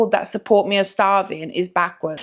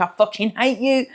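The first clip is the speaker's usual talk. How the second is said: laughing mock hate. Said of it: "look at that bag every night and think".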